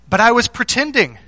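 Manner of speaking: imitated child's excuse. Daughter excusing her broken promise to dad, imitated childish protest. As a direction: protest like a small child caught out. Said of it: "this is what she said to me".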